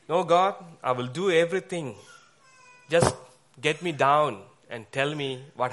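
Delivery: high, loud, tearful plea; stranded man crying out to God to save him; desperate pleading cry. Acted. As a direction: beg God for rescue with a breaking voice.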